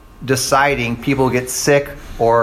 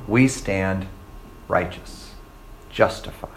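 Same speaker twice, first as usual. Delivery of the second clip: soft, almost breathless conviction; hushed; 8 semitones lower, 8 dB quieter, slower than usual. Real, not acted. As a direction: drop to a near whisper on "righteous". Preacher drops to near-whisper.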